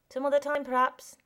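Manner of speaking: loud mocking repeat. Boy mocking the new kid's phrase aloud, loud taunting. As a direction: throw it back at him loudly.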